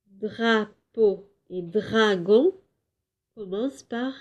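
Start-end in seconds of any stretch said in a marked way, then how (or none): 0.1-2.6 Drapeau and dragon slowly split after dra; first syllable isolated. Shown as a demonstration. Teacher comparing two words, Drapeau and dragon broken into syllables. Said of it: "la syllabe dra".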